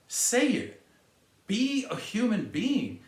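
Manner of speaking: high, pushing command, then slow; demanding. Real, not acted. Vlogger urging people to admit they're wrong, demanding. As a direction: order them to own up.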